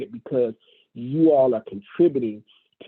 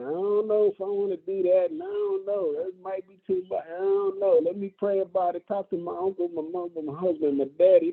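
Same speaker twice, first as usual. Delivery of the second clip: mock hesitant recruit; 5 semitones higher than usual. Imitating hesitant recruits' excuses.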